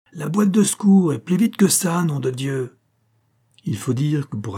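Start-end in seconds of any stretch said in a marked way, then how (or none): 0.1-2.8 high, loud order tailing off on the oath; commanding shout. A narrator's reading. Theatre director demanding the first-aid box, shouting. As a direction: cry out like a bossy director. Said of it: "et il cria".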